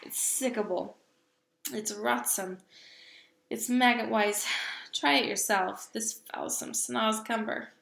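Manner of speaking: disgusted loud giant. Acted. Giant spits out foul vegetable.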